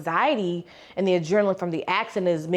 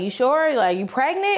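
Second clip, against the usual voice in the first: over-the-top coworkers; 5 semitones higher than usual. Retold or imitated. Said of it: "they just take it, like, oh, over the top".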